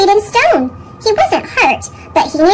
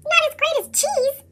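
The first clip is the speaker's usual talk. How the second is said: scoffing; 9 semitones higher, 6 dB quieter than usual. Acted. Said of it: "scoffed Squeak".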